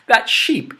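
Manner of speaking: ordinary delivery, nothing marked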